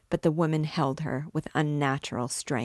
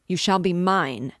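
louder insistent priest; 3 semitones higher, 6 dB louder than usual. Acted. Priest repeats his claim louder.

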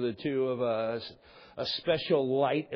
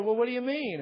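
sarcastic; 8 semitones higher than usual. Retold or imitated. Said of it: "By this point, I was sarcastic".

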